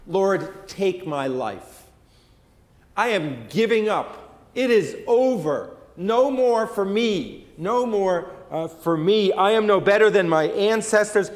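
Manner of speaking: imitating a pouting prophet giving up; lightly hammed-up pout. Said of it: "in a pouting manner".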